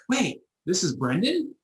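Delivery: high, slow startled question; surprised realization. Retold or imitated. Caller realising he's speaking to Brendan, high slow surprise.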